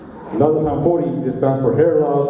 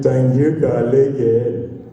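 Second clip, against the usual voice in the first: put-on clipped South Asian call center accent; much slower than usual. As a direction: rattle off the greeting half-swallowed. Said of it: "I would be talking like this".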